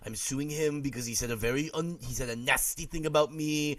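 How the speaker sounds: lightly imitated aggrieved politician; a hint of a whining politician's complaint; mildly mock-aggrieved rant; Donald Trump. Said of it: "it's giving Trump".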